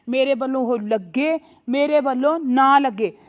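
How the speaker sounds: angry, dismissive and loud. Acted. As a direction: spit out that she doesn't care. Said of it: "ਤੂੰ ਤਾਂ ਊਂ ਹੀ ਗੁੱਸਾ ਕਰੀ ਜਾਨੀ ਆ".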